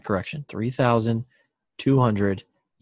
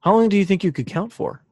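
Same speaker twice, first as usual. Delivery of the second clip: shouting over wind; 7 semitones higher than usual. Real, not acted. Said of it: "The wind is so strong".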